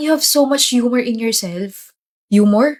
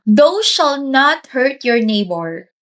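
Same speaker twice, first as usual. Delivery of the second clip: mock solemn; 2 semitones higher, much slower than usual. Mock scripture recited slowly.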